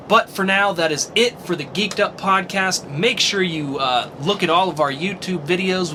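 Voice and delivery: rally listeners for next week; announcer outro. Acted. Podcast outro announcer read.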